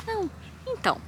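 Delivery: timid, high and hushed; tiny, tentative high-pitched start; shy soft voice. Retold or imitated. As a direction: imitate a shy girl piping up softly. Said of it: "fala baixinho e tal".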